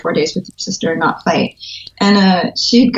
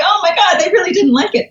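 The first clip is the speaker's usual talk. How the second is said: mock dismay; 11 semitones higher than usual. Reaction to red-marked manuscript.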